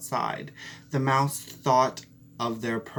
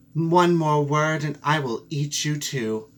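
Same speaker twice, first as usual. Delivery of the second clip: louder threat; menacing cat; 2 semitones higher, 6 dB louder than usual. Acted. Cat threatens to eat the mouse, louder. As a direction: warn her coldly and hard.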